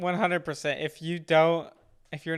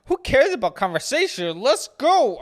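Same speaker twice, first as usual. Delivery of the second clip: mock tough guy; 7 semitones higher, 6 dB louder than usual. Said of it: "He's like".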